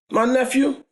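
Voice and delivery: confronting aunt. Retold or imitated. Aunt confronting the boy downstairs, high and demanding. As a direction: call out the bully like an angry aunt.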